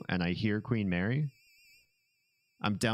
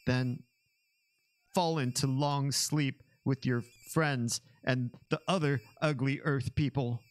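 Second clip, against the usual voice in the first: villain voice; 4 semitones higher than usual. Acted. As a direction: curse them like a sore loser alien. Reading villain curse.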